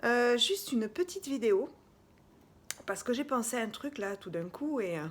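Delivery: out of breath. Real, not acted. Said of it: "je suis un petit peu essoufflée".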